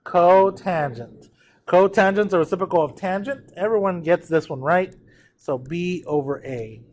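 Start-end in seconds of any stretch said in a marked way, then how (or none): 0.0-1.3 "Cotangent" stretched out slowly; slow choral cue on "Cotangent"; say-along demonstration. Shown as a demonstration. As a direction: lead the class slowly through "Cotangent". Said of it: "Say it with me".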